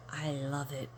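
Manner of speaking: soft whispered wonder; awed whisper. Retold or imitated. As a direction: breathe it in quiet awe. Child whispering in awe.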